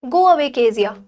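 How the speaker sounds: loud, upset cry to send the maid away. Acted. Upset Maggie cries out at the maid Kezia. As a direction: push the maid off, a loud protest. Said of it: "Mary cried".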